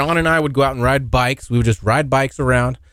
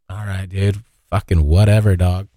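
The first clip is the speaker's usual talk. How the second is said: dismissive shrug-off; 5 semitones lower than usual. Retold or imitated. Acts out kid shrugging off apology.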